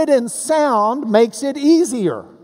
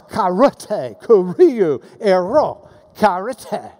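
"karate, kuriu, ero, karate" with each R syllable punched; "karate, kuriu, ero, karate", R sounds brought out; stress on R sounds; slower than usual. Shown as a demonstration. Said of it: "he's got the R sounds".

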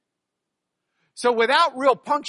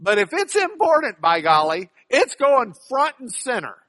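louder and higher, punching each phrase; emphatic, louder; 4 semitones higher, 7 dB louder than usual. Real, not acted. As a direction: drive it home loud and proud. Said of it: "Because emphasis is part of what".

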